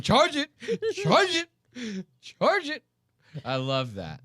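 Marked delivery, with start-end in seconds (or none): 0.0-2.8 high, repeated barked order; yelled command. Retold or imitated. Instructor barking at the kids to charge it, high mock yell. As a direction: hammer the command like a drill instructor. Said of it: "He's going".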